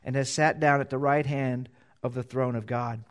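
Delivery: measured, solemn Bible reading; formal pulpit reading of Scripture. Acted. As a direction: read the passage like it matters. Reading scripture before the sermon.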